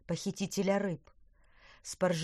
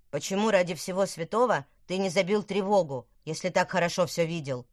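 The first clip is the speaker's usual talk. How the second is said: sarcastic; 5 dB louder than usual. Acted. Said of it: "язвительно спросил Тыквер".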